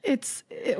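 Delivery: ordinary talk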